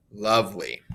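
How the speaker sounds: "lovely" as LOVE-ly, weight on LOVE; overemphasized first stress. Shown as a demonstration. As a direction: let LY drop away in "lovely". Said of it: "overemphasize some of these stresses".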